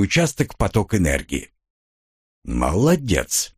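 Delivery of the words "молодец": slow, pleased praise; a satisfied, drawn-out well done. Acted. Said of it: "довольно произнёс голос".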